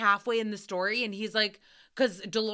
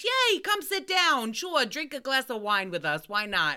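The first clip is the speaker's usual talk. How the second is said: cheery parents; 3 semitones higher than usual. Retold or imitated. Parents inviting the waitress to drink, overly cheery. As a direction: gush like carefree parents.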